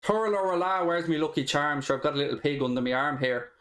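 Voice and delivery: lightly put-on Irish accent; a hint of stage Irish accent. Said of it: "The mic makes you sound Irish".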